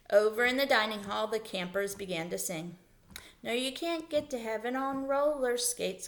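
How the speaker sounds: lively storybook reading with character voices; reading to children. Acted. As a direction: read the chapter aloud to the class, animated. Reads chapter aloud to children.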